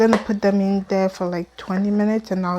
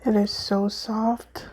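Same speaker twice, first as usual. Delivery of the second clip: mouth full; 3 dB quieter than usual. Real, not acted. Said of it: "I'm talking with my mouth full".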